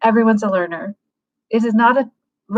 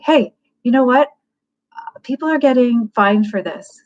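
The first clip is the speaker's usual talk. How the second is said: firm; 3 semitones higher than usual. Shown as a demonstration. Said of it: "you wanna be firm".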